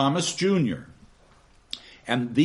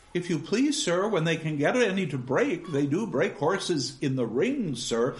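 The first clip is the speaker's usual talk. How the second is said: put-on timid girl; 2 semitones higher than usual. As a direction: answer shyly and politely.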